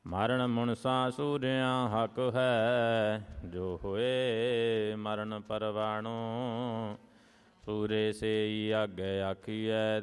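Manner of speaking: steady, measured chant of sacred verse; devotional hymn recitation. Real, not acted. Devotee recites Gurbani verses to the congregation, in a measured chant. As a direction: recite each line like a prayer, evenly paced.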